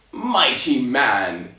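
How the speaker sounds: slow, drawn-out giant address; first try at the giant's accent, stretched out. Acted. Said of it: "in the original accent of which".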